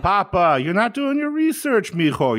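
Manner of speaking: high, loud exasperated plea; exasperated pleading friend. Retold or imitated. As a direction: beg him like a frustrated son. Voicing Roberto arguing politics.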